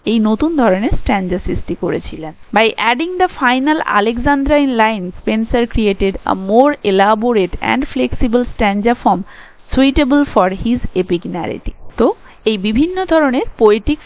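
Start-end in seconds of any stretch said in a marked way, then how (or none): 2.6-11.8 reading notes aloud very slowly, word by word; slow, careful read-aloud of lecture notes; slow dictation reading. Shown as a demonstration. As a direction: dictate it slowly so students can write it down. Teacher reads English notes aloud.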